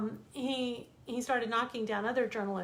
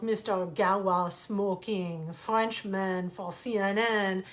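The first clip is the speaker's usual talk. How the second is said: imitated yelling; 5 dB louder, slower than usual. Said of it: "he yells".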